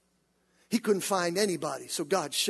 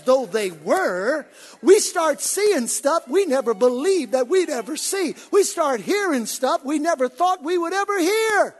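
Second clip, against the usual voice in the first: rising, loud preacher's build; preaching; 7 semitones higher, 7 dB louder, slower than usual. Acted. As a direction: preach it with mounting fire. Preaching at full force.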